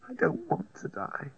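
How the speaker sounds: high slow frightened plea; frightened pleading. A narrator's reading. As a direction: plead it slowly, afraid. Dying woman pleads.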